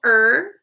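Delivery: "er" said alone, stretched and clear; teacher isolating "er"; isolated syllable. Shown as a demonstration. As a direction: sound out "er" on its own. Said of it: "Second syllable".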